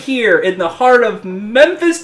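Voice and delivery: wrestling promo. Pretend. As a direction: call out your rival on the mic. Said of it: "I'm gonna cut a promo now".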